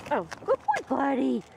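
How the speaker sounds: high squeaky praise for the dog. Real, not acted. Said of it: "my squeaky little praising my dog voice".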